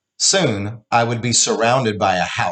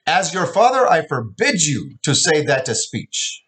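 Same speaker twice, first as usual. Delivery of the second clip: furious yell; 6 semitones higher than usual. Acted. Father yelling his ban at his daughter. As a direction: lay down the law at full volume. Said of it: "Finally, he was yelling at me".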